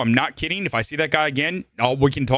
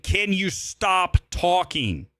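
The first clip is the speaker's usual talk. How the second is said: slow, higher, pointed request; retold loud complaint; 4 semitones higher, much slower than usual. Fed-up moviegoer to chatting couple, retold loud complaint. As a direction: draw it out pointedly, without really shouting. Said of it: "I said so loud".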